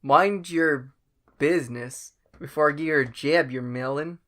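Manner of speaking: put-on botched Southern-Scottish-Irish accent; garbled, unplaceable mock accent; muddled accent. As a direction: lose your way in a made-up accent. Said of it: "I didn't know what accent I was".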